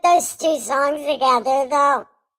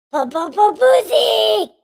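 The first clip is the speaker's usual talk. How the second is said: high, loud stuttered jeer; mocking stutter, raised and punchy; mimicked taunt; 8 semitones higher, 5 dB louder than usual. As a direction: imitate his stuttering taunt, pitched way up. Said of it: "he said it just like that".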